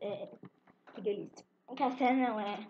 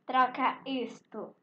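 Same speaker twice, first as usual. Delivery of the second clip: slow; slower than usual. Real, not acted. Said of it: "Troca isto por isto, sim ou não?".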